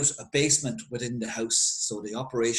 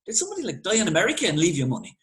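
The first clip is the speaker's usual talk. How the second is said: lightly voiced prying local, pitched higher; nosy local; 4 semitones higher, 3 dB louder, much faster than usual. Local boyo pumping Doyle for gossip, a higher nosy voice. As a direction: ask it sly and higher, fishing for gossip.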